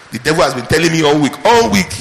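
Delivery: a touch of mockery, rising on "All week"; mocking quote. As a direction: poke fun at the testimony. Mocking testimony.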